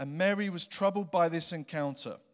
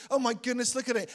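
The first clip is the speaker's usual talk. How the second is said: higher mock gasp of surprise; freaked out; 6 semitones higher, faster than usual. Preacher imitating Mary seeing an angel, higher mock surprise. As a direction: play Mary startled by the angel. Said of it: "Wouldn't you be freaked out?".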